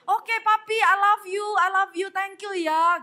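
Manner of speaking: mock-adoring wife on the phone; sweet-talking wife. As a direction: lay on the affection for a generous husband. Wife gushing thanks on the phone.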